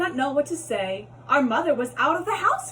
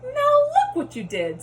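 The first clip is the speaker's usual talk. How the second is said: high, loud furious squeal; fish scolding; 5 dB louder than usual. Acted. Fish scolds the cat for the mess, high loud scolding. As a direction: shriek the blame at the cat. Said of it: "said the fish to the cat".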